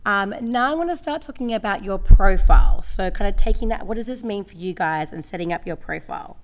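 a bit croaky, slightly rough throat. Real, not acted. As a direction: speak with a croaky voice from a cold. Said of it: "I've got a bit of a croaky voice".

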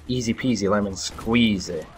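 slow drawn-out playful rhyme; sing-song. Real, not acted. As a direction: savor the cheesy phrase. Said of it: "I don't think people still say that".

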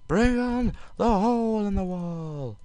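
high, stretched-out game call; drawn-out call. Real, not acted. Player daring the boss attack, drawn-out call.

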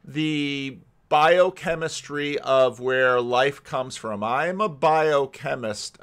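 slow, deliberate challenge; James Tour. Retold or imitated. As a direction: imitate a biochemist slowly calling someone's bluff. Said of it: "people like James Tour that say".

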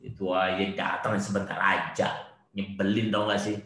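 mock two-faced griping after a scoffing cry; lightly acted irritated muttered complaint; behind-the-back grumbling. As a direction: imitate a hypocrite complaining in private. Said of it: "Di belakang".

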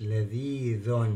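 لذيذ slowly, ending in a sounded "dhun"; tanween with damma. Shown as a demonstration. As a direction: add an audible "un" to لذيذ after a long ee. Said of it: "تنوين بالضم يبقى في نفس الكلمة". (لذيذ ببطء بتنوين الضم، نون مسموعة في الآخر)

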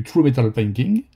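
English words with a thick French accent; bad English accent. Real, not acted. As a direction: say the English in a self-admittedly poor French accent. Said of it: "avec mon accent anglais pourri". (anglais avec un fort accent français)

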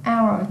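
"Hour" said with no H at the start; silent H. Shown as a demonstration. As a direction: leave the H off "Hour", open on the vowel. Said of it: "chữ hơ bị câm".

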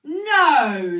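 high, loud burst; screeching. A narrator's reading. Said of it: "screeched a great fat Omi Palomi".

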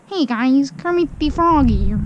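lightly voiced Kermit greeting; a barely changed attempt at Kermit; Kermit the Frog impression. Vlogger tries a quick Kermit greeting, bad impression. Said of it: "That was a bad impression".

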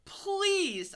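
high, loud begging yelp; wrongly said plea. A narrator's reading. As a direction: plead with a sudden high, loud cry. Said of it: "I said it wrong".

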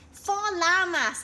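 high, loud and slow, sure he has won; proud exclaim. A narrator's reading. Gaw boasting about his llama count, high and triumphant. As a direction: crow the number like a winner. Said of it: "exclaimed Gaw".

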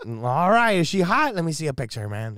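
high, loud, keen dad voice; hammed-up dad wanting to see her; eager dad. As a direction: ask for the picture like a buddy.

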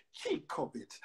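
breathy, scoffing aside; a sneering whispered aside; scornful aside. Acted. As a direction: toss it off with disdain. Scornful aside within the poem.

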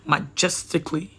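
single whispered word. Shown as a demonstration. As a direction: breathe the word out. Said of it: "let me say majestically".

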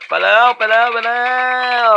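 excited relief. Real, not acted. Escaping just in time.

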